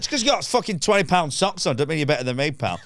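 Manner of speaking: high, indignant rant; comic aggrieved tirade; retold heckler put-down. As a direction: have a go at the punter, mock outraged. Retells having a go at heckler.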